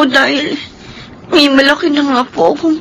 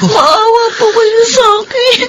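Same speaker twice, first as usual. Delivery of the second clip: pleading sob; 3 semitones higher than usual. Acted. Maid begs boss to stop.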